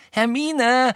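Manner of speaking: loud, high rebuke; snapping. A narrator's reading. Ron rebukes Hermine for doubting Harry, snapping. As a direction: round on her in exasperation. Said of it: "fuhr Ron sie nun an".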